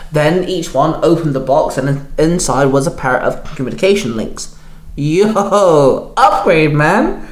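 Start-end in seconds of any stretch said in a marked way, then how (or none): 5.0-7.3 higher, excited youngster's cheer; delighted, rising character voice. A narrator's reading. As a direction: cheer over a new gadget. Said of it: "Up Close cheered".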